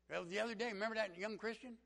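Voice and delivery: high, loud country voice; country accent. Retold or imitated. Country man reminding class of a coworker, country accent. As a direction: imitate a country fellow piping up. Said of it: "he just talked like this".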